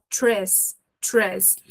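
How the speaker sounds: "tres" run together as one syllable. Shown as a demonstration. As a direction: say "tres" as a single short beat, t and r joined. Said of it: "ele vira uma sílaba só".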